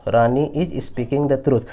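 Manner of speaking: very slow, each word spaced out; slow dictation. Shown as a demonstration. Teacher dictating the English answer to students, very slow. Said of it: "तो क्या हो जाएगा जी".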